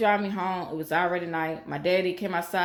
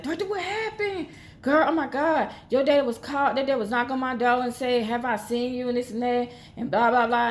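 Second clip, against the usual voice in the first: much higher, gushing friend voice; excited girlfriend; 5 semitones higher than usual. Retold or imitated. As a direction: squeal it like an excited schoolgirl.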